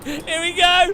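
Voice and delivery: real excited shout at the corner. Real, not acted. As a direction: hype it up as the car dives in.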